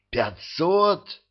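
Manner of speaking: high stunned gasp; gasping in shock. A narrator's reading. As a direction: gasp the number in disbelief. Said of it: "ахнул Алёша". (ошеломлённо, на выдохе)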